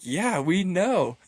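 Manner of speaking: slow, dry, obvious reply; deadpan. Retold or imitated. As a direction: drag it out like it's obvious. Crowd replies to obvious news.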